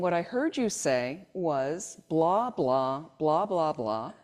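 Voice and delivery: calm. Retold or imitated. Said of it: "just very calm".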